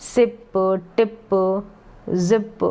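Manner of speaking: slow, stretched reading with gaps; drawn-out word list. Shown as a demonstration. Teacher reading "ip" words to learners, drawn out. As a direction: stretch each short word, pausing between. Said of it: "खींच के मैंने थोड़े long बता दिए हैं".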